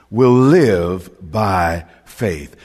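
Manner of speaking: live drawn out slow and leaned on; slow emphatic live in will live by faith; stress on live. Shown as a demonstration. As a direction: lean hard on live, very slowly. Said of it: "Emphasis on the word live".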